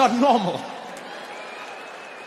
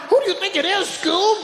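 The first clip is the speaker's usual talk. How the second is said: acted cartoon sleuth; 10 semitones higher than usual. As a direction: put the question like a cartoon detective. Cartoon lineup accusation acted out.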